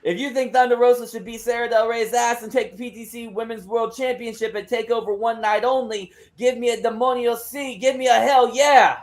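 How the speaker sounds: rallying the crowd. Acted. Wrestler asks Charlotte for a hell yeah, building hype.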